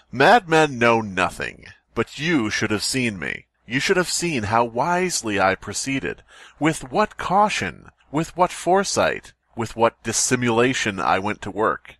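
slow, relishing storyteller read; dramatic Poe reading. Acted. Reading Poe to friends, slow and relishing. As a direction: savor each phrase like a gleeful madman.

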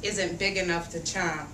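lively picture-book read-aloud; reading to children. A narrator's reading. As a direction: read it out for a room of little kids. Reads picture book to kids.

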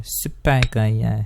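drawn-out slow title announcement. Pretend. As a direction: stretch it out slowly like a title. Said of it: "videonun adını buldum".

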